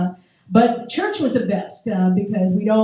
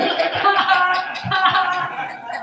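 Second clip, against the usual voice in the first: mock taunting laugh; 8 semitones higher, much slower than usual. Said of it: "we'd just be like".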